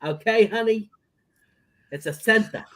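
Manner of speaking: put-on Jewish grandmother, doting. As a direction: fuss in a Jewish grandma's accent. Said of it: "All I do is my Jewish grandmother".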